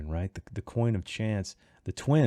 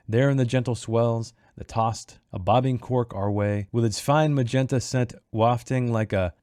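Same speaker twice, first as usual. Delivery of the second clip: verse reading. A narrator's reading. Reading the passage before chapter five to listeners, measured verse delivery. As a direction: read it as solemn book verse, measured. Reads the book's opening verse.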